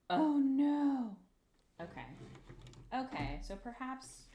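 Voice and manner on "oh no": alarmed cry. Real, not acted. Alarm at puffy part.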